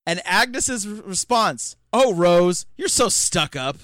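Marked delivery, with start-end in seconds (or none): 1.9-3.8 mock sass. Quoting Agnes sassing back.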